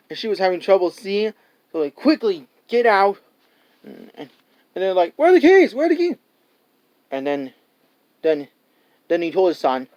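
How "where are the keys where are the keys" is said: panicked keys. Retold or imitated. Panicked search for car keys.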